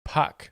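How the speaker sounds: "Puck" with a P for the F; accented swear, "Puck" with initial P. Shown as a demonstration. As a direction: say "Puck", opening on a popped P. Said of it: "So she's saying puck".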